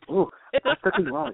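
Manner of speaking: very high mock Indian accent. Trapped woman stuck in the wall, put-on Indian accent. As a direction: plead high-pitched in a comic Indian accent. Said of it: "I feel like I'm from India now".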